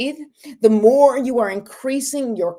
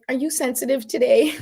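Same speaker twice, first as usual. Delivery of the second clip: gently playful imitation of a husband, higher pitched; sweet teasing; 5 semitones higher than usual. Husband teasing his sensitive wife, mock-sweet and higher. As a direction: ask sweetly, without judgment. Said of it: "he always said it so sweetly".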